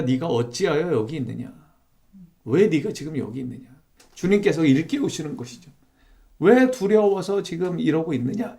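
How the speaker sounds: soft, searching question from God; a hint of a tender questioning God; gentle divine question. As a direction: ask it quietly, like waking someone up.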